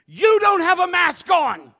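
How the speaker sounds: imitating the man shouting; angry shout. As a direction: bark it at him like an angry stranger. Retold confrontation, angry man.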